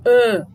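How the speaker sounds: loud held nasal ã. Shown as a demonstration. Teacher sounding out the nasal ã again. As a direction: ring the ã through the nose. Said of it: "Não é A".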